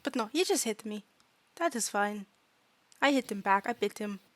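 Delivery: simple, careful broken English; small fairy unbothered by a scuffle; matter-of-fact fairy student. Acted. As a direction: own up to it plainly, in short phrases. Fairy reports biting back.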